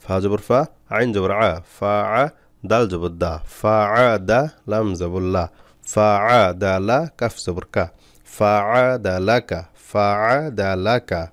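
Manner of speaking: measured chant-like spelling, blended syllables drawn out slowly; spelling-out recitation. Shown as a demonstration. Teacher spelling a word for learners, slow drawn-out recitation. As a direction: spell each letter, then stretch the joined syllables.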